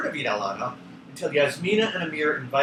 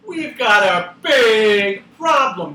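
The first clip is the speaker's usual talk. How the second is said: dramatic worry; 5 semitones higher, 6 dB louder than usual. A narrator's reading. Peg announces trouble.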